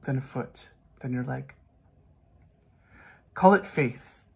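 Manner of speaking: measured poetry reading with long pauses between lines; poem reading. Acted. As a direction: recite it phrase by phrase, pausing after each image. Reads own poem aloud.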